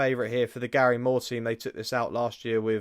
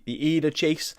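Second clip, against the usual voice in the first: badly faked Geordie, pitched higher; attempted Geordie accent; 4 semitones higher than usual. Shown as a demonstration. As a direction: have a clumsy go at a Geordie accent. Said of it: "Is that how you say it in a Geordie accent?".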